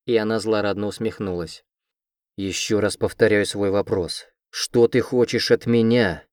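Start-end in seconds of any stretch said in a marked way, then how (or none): 2.4-6.2 slow, louder, menacing growl; growled demand, ominous and slow. Acted. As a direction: repeat the question through your teeth, louder. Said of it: "прорычал Леор".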